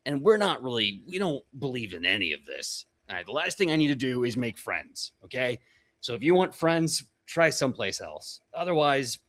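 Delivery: lightly voiced orc leader, curt and unwelcoming; mildly menacing, no-nonsense orc representative; tough orc warrior. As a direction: lay down an ultimatum to strangers. Game master plays orc warrior.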